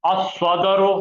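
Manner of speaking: अस्सदरु slowed, doubled स्स held; slow Arabic reading. Shown as a demonstration. Teacher prompting students, slowly modelling अस्सदरु. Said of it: "तो बोलो".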